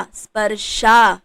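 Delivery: स्पर्शा said slowly with a long final आ; careful. Shown as a demonstration. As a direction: model स्पर्शा clearly for students. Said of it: "तो यहाँ पर आ". (स्पर्शा का साफ उच्चारण)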